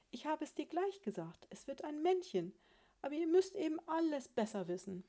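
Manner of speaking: high-pitched, self-righteous scolding; smug I-told-you-so. Acted. Wife rewriting her prediction to husband, smug. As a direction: claim you were right all along.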